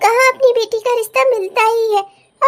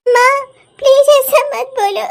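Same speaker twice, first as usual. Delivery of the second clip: pleading cry; 4 dB louder than usual. Acted. Daughter begging weeping mother.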